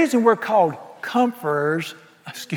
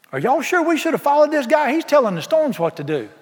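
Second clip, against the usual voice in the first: worried disciple; 8 semitones higher than usual. Acted. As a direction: fret about following him. Disciples voiced, doubting Jesus.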